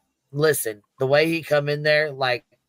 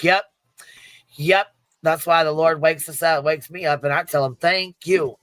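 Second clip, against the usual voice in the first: drunk Craig imitation; 3 semitones higher than usual. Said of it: "And Craig's like".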